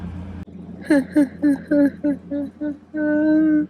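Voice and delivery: high, drawn-out laugh; overwhelmed laughter. Real, not acted. Reader overcome by a too-precious hero, high helpless laugh.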